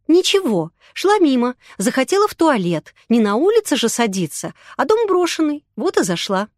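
lightly voiced girl making excuses; defiant young woman. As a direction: talk your way out, a little high and pushy. Yulia's voice, defensive.

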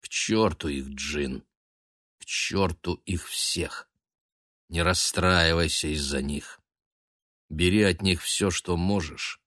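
quiet brotherly comfort; calm. A narrator's reading. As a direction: soothe him gently. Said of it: "продолжал спокойно".

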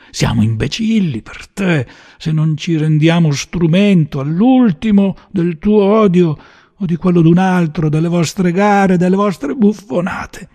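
loud, high-pitched denunciation; heated, contemptuous outburst; furious tirade. Acted. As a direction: build to a raging accusation. Gunman rages at his target.

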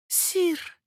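high, startled cry of Sire; astonished. Acted. Baroness astonished at the king's offer, startled high cry. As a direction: gasp it out in amazement. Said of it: "глядя на короля с изумлением".

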